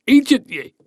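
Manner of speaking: high, loud yelled insults; Finn shouting. Acted. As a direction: bellow insults across the sea. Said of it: "shouted Finn".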